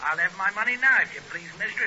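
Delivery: mild stern landlord. Retold or imitated. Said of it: "he said, uh, quite properly".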